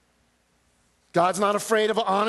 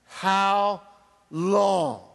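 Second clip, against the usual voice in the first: martyrs' cry. Acted. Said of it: "This is the cry of the martyrs".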